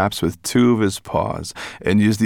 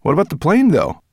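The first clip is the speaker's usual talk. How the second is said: put-on boy voice; 10 semitones higher, 6 dB louder, faster than usual. Ben character voice.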